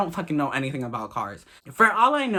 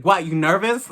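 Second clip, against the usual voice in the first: loud, blunt challenge; aggressive; 3 semitones higher, 5 dB louder than usual. Retold or imitated. Blunt passenger calling out a nervous date, aggressively. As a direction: throw the question at him, pushy and loud. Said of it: "it was so aggressive".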